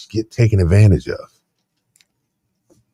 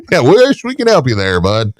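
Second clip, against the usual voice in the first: mock sympathy. Co-host imitating insurer refusing to help, mock sympathy. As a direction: feign regret while turning them down.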